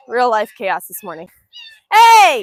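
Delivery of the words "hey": loud sudden yell at the dog; sharp yell. Real, not acted. Owner yelling as dog grabs bird again, sudden shout. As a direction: bark it out to stop him.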